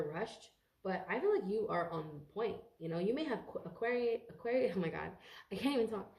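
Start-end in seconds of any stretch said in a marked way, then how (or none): none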